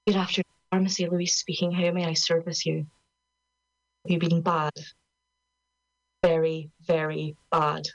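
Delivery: prim receptionist phone manner; posh telephone voice. Shown as a demonstration. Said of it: "My really posh telephone voice".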